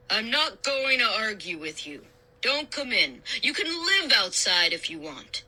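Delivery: understated exasperation, put-on dad voice; exasperated. A narrator's reading. Dad giving in to stubborn Josh, exasperated. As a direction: give up arguing, fed up. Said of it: "He sounded really exasperated".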